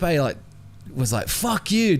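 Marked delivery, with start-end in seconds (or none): 1.3-2.0 high, punchy imitation of Felipe; mock Felipe swearing. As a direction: fire it off high and cheeky. Felipe swearing at aggressive guy.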